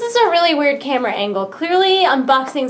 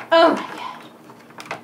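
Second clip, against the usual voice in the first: slow, breathless whisper; awed whisper; 3 semitones higher, much slower than usual. Real, not acted. Amazed by his new keyboard, whispering in awe.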